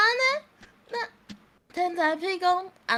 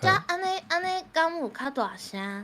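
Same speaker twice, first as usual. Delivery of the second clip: raised voice for a sound check; louder test voice; 3 semitones higher than usual. Shown as a demonstration. Streamer testing volume for a teammate, slightly raised voice. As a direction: speak up a little to test the volume.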